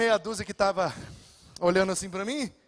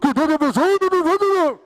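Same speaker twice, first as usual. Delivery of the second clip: loud, slow, garbled mock blessing from a distracted listener; drawn-out muddled blessing; mumbled blessing; 5 semitones higher, 8 dB louder, much slower than usual. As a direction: mimic someone who can't hear a word. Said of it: "e fica".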